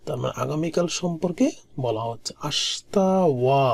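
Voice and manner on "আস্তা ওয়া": slow, stretched repetition; slow model pronunciation. Shown as a demonstration. Teacher repeats the word for tomorrow, slow and stretched. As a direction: say it slowly for learners to copy.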